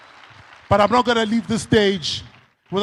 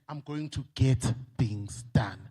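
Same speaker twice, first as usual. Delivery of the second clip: softer, lower, slow spoken promise; quiet pledge; 9 semitones lower, 10 dB quieter, slower than usual. Shown as a demonstration. Speaker models a quiet pledge to the bank, low and soft. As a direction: say it to yourself as a private vow. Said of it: "We are Bathembisa ukuthi".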